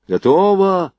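loud, high military report; reporting ready. A narrator's reading. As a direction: call out to the commander. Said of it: "докладывали один за другим фейерверкеры".

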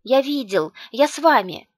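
high, loud, eager insistence; excited little boy. A narrator's reading. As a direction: pipe up eagerly like a child.

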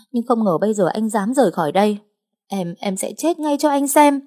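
frantic shrill-pitched threat; hysterical threat. Acted. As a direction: scream the threat to die. Threatens suicide with knife.

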